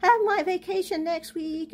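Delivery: a lightly mocking voice of contented normal folks; mimicking cheerful neighbours. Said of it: "all going around".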